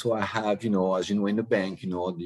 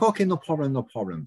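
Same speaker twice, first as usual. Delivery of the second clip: cordial; 4 semitones higher than usual. Retold or imitated. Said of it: "So very cordial".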